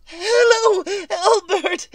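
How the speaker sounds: wife thinking her husband is finally calling; eager hello. Acted. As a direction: burst out hopefully. Answering, hoping husband calls.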